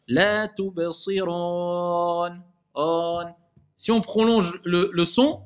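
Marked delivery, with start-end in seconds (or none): 0.1-3.2 slow chant, tubsirun ending in a long "ooon"; sustained faulty "ron" in tubsirun; common mistake. Shown as a demonstration. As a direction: recite with the final OU wrongly opened to On. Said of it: "beaucoup récitent et ils disent comme ça".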